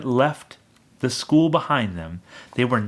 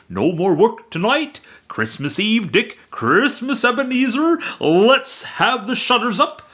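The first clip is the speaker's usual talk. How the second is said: high, much louder hearty call; rally the boys cheerfully; jovial Fezziwig; 10 semitones higher, 3 dB louder than usual. A narrator's reading. Fezziwig calling his apprentices, jovial shout. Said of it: "cried old Fezziwig".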